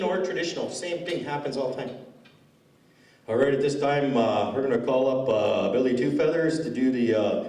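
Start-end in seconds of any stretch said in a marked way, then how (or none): 3.3-7.4 steady, plodding call-up with uhs; lightly voiced elder announcing; elder on the mic. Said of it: "the other way the elders do it".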